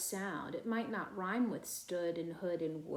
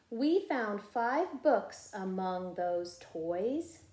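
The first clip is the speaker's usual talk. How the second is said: slow, clear and a touch louder: we found five books among those toys; model reading; 4 dB louder, slower than usual. Shown as a demonstration. Teacher modeling the sentence for first graders to echo. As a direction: read it out for the class to copy. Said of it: "you be my echo".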